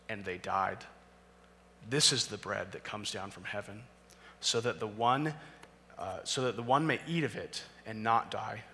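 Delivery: measured, solemn reading of the passage; scripture reading. Acted. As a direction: read it like holy writ, unhurried. Reads scripture passage aloud.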